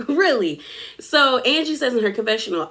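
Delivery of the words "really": falling tone, only slightly raised; unconvinced. Retold or imitated. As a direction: repeat it as a let-down, pitch dropping. Repeats reaction, now falling.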